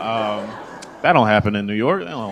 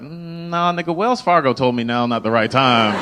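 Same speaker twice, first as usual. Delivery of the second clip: mock indignant comeback; 2 semitones higher, 4 dB louder than usual.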